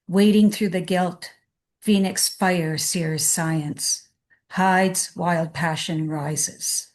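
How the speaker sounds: slow, measured poem recital; unhurried reading with space after each line; poetry reading. Acted. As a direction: read the poem line by line, slowly, with pauses between. Reads her poem aloud.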